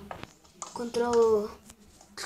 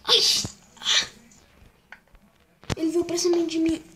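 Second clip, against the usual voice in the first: loud alarmed cry; 7 semitones higher, 8 dB louder than usual. Real, not acted. Attacked by a mob in game.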